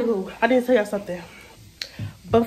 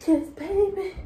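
fake argument; 3 semitones higher than usual. Fake fight with imaginary friend.

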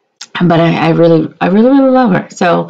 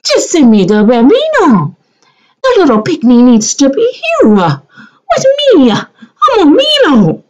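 mock pleading; 8 semitones higher than usual. Hammed-up pleading in broken speech.

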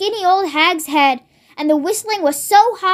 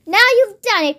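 reproachful cry; 4 semitones higher than usual. Acted. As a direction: blame him, dismayed. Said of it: "cried Missus Cranky".

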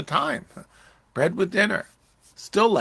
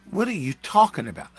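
mildly exasperated, pitched up; exasperated rebuke; 4 semitones higher, 4 dB louder than usual. Acted. Preacher voicing Jesus to his disciples, exasperated. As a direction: challenge them, baffled and impatient. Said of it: "That's the way he said that".

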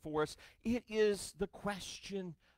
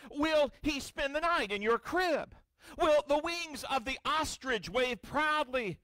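voice of God; 7 semitones higher than usual. Acted. Preacher voicing God to Job.

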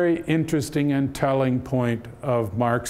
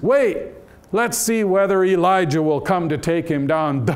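high, louder taunt; mocking jeer; 3 semitones higher, 3 dB louder than usual. Bystander taunts dying Jesus, loud mocking jeer. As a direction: sneer it like a joker at the cross.

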